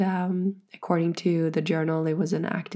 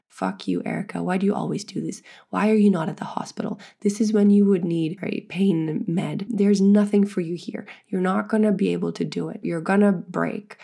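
a harsh inner critic voice, pushed a little louder; lightly voiced inner doubt that grows harsher and louder; inner fear voice; 4 dB louder than usual. Woman voicing the fear voice in her head, a mild mock sneer. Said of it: "that little motherfucker of a fear voice".

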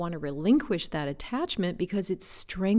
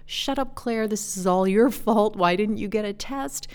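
scolding herself; 3 semitones higher, 5 dB louder than usual. Retold or imitated. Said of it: "this negative self-talk began".

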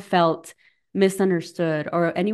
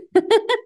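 short laugh; 4 dB louder than usual. Real, not acted. Laughs at a viewer's reply.

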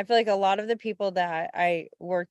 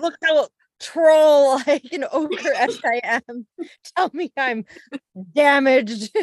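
mock needy troll; 7 semitones higher, 11 dB louder than usual. Friend mocks her skin worries as a needy troll. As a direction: ham up a needy troll begging for reassurance. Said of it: "Validate me".

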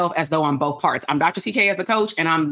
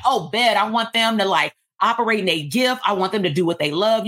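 getting excited; 3 semitones higher than usual. Pretend. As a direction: burst with eager excitement about the outcome. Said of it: "and then you get excited".

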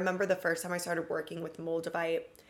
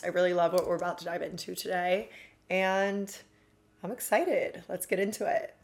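fast, jittery caffeinated talk; buzzing on coffee; too much caffeine. Real, not acted. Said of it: "I get so caffeinated".

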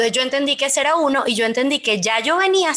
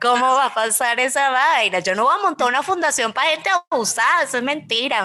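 disbelieving; 2 semitones higher than usual. Retold or imitated. Retells her own past disbelief.

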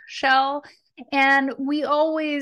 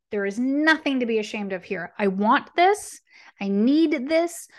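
affirmations. Acted. Affirmation recitation.

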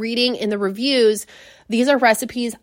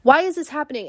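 higher, slowed mock exasperation; frustrated panic; 6 semitones higher than usual. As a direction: replay the panic as the stream cuts out. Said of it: "And I'm like".

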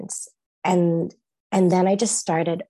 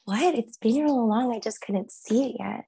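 higher, echoing it back in disbelief; stunned wonder; 4 semitones higher than usual. Retold or imitated. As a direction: repeat it as it dawns on you. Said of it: "And I was like".

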